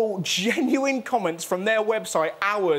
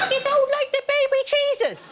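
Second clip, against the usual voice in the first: much higher, shocked evangelist; shocked preacher. Retold or imitated. Evangelist stunned by the refusal, high shocked voice. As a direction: gasp it out in disbelief at the door. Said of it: "Some God botherer".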